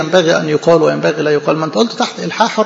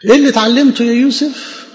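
higher, pressing question to Joseph; raised, insistent asking; emphatic question; 6 semitones higher than usual. Shown as a demonstration. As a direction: demand the answer from Joseph. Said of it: "repeated question".

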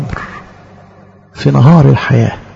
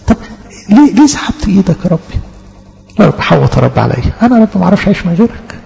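a mild pleading prayer to God, partly hurried; faster than usual. Acted. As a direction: plead with God like a hurt child. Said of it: "نحاجي ربنا". (توسل خفيف لله)

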